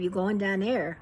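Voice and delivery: casual Pittsburgh run-together question; Pittsburghese. Acted. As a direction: say it in lightly done Pittsburghese, dropping the first word. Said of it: "She corrected my Pittsburghese pronunciation".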